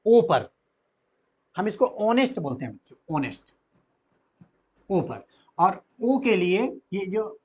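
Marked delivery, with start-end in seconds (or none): 1.6-3.4 ऑनेस्ट with the weight on its first vowel ओ; teacher modelling ऑनेस्ट with a heavy ओ; stress on the ओ. Shown as a demonstration. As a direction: lean on the ओ of ऑनेस्ट. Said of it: "इसमें pressure किस पे जा रहा है? ओ पर".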